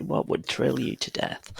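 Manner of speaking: put-on slow breathy New York accent; American accent. Coach asking the life question, whispered New York accent. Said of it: "he said it in this American accent".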